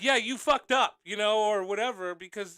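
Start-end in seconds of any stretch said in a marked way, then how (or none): 0.0-1.0 imitated shout. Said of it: "I could be like".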